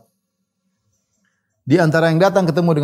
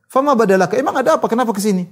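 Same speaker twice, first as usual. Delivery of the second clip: astonished; 7 semitones higher, faster than usual. Retold or imitated. Uwais puzzled by the mocker's visit.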